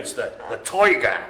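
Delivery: tiger said as toiger in a New Jersey accent; a playful New Jersey toiger. Shown as a demonstration. Bingo caller to players, a jokey New Jersey accent. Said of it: "sounds like you're saying the word tiger, but in a New Jersey accent".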